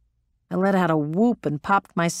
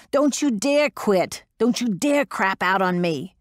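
raw shouting; 3 semitones higher than usual. Acted. Metz pushing the exhausted pilot, raw shouting. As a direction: drive each word at her. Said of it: "She was getting pretty raw by then".

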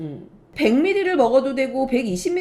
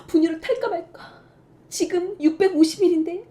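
fretting mom; 6 semitones higher than usual. Retold or imitated. Mom agonizing over late feed.

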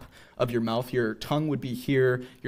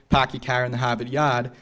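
Boston accent. Shown as a demonstration. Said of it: "test of a speaker's Boston accent".

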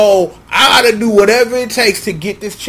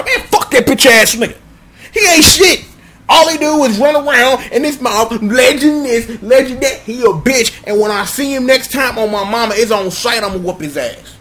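angry rant; 3 semitones higher than usual. Acted. Acted rant against Birdman.

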